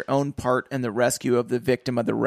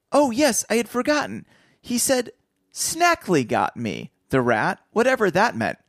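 put-on higher eager boy's voice, suddenly remembering; excited boy; 9 semitones higher than usual. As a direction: blurt it out like a keen teenager.

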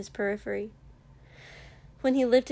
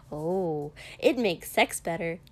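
breezy, cheerful explanation; lightly cheerful; 3 semitones lower than usual. Acted. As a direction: chirp it out happily. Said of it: "Mina said cheerfully".

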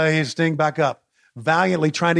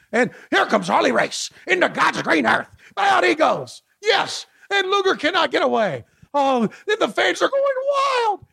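frantic mock sports commentary; 10 semitones higher than usual.

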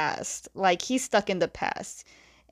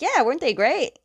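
higher, louder happy gush; oblivious cheer; 7 semitones higher, 4 dB louder than usual. Retold or imitated. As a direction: beam like you missed the point. Aang oblivious about fangirls.

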